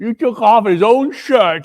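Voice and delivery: high and loud through laughter; laughing. Acted. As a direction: laugh in wicked delight. Charwoman laughing at theft.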